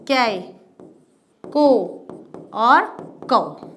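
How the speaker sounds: ka carried through each vowel sound in turn. Shown as a demonstration. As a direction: recite k plus vowels, one syllable at a time. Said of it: "अलग-अलग स्वर के sound". (क को हर स्वर के साथ उच्चारित करना)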